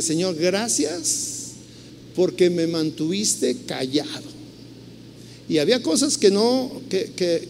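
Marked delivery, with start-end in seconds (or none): 0.0-4.3 soft thankful prayer. Retold or imitated. Thankful prayer after the meeting.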